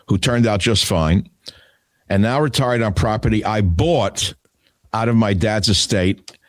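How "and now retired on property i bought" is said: bought said with extra weight; stress on bought. Retold or imitated. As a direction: lean on the word bought. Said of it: "he emphasizes the word bought".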